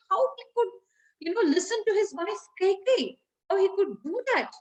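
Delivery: mock-indignant, pitch lifted; indignant retelling. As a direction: lightly act out an angry complaint. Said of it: "he's so angry".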